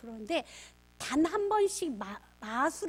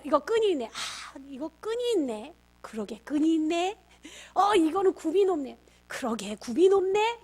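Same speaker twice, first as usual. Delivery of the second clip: both lines louder, eagerly agreeing; loud echoing agreement; 7 dB louder than usual. Retold or imitated. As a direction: echo her words back with energy. 딸과 엄마의 맞장구 재현. (딸 말에 크게 맞장구치며)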